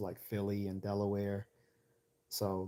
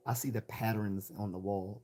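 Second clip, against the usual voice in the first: lightly imitated Baltimore accent; a hint of Baltimore on "patterns". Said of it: "I don't talk that way".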